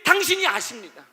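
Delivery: high, loud pleading prayer to God; impassioned prayer, voice lifted; fervent prayer. Acted. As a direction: cry out to God in trust.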